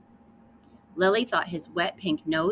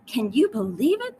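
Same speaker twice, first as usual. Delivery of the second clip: raised, higher delighted exclaim; excited exclamation; 5 semitones higher, 4 dB louder than usual. Acted. Parents marvel at baby's bubble, higher and louder. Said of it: "they exclaimed".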